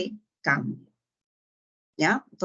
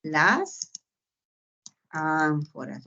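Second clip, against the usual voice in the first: correct answer; 3 semitones lower, much slower than usual. Shown as a demonstration. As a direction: confirm it calmly, falling. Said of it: "tú dirás". (respuesta correcta, más baja y tranquila)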